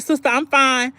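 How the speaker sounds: a hint of fake-fine cheer to her sister; mock breezy. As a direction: brush it off brightly. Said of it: "I texted back and I was like".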